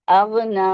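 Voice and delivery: "اغنا" with the final na held for two beats; "اغنا" with a two-count a. Shown as a demonstration. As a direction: stretch the end of "اغنا" briefly. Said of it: "ٹو counts کھینچیں گے".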